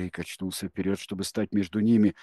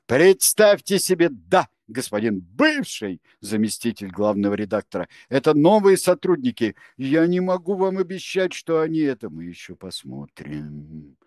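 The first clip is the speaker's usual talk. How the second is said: loud, high, a touch creaky and sneering; hint of a grating sneer; creaky strange voice; 5 semitones higher, 7 dB louder than usual. A narrator's reading. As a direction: spit it out in an unfamiliar creaky voice. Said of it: "незнакомым скрипучим голосом".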